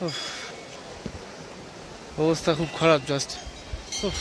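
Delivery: exhausted panting; worn out after climbing; out of breath. Real, not acted. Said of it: "হালত খারাপ হয়ে গেছে".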